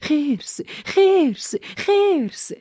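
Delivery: very high, loud desperate yells; full-force frightened shout; shouting with all her might. A narrator's reading. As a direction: scream the word to scare the bear off. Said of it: "با نهایت قدرتش فریاد زد".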